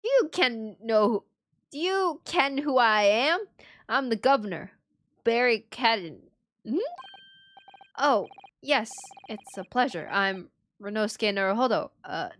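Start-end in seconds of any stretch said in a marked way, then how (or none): 0.0-6.2 a hint of a proud Scottish governor. The governor introducing himself in a light Scottish accent. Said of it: "What is this accent?".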